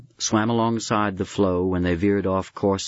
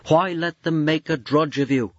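high raised voice over the wind; urging shout; 7 semitones higher than usual. Acted. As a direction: call it out against the storm.

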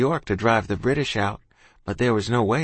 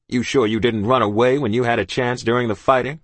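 stern captain; 4 dB louder than usual. Acted. Captain's held voice.

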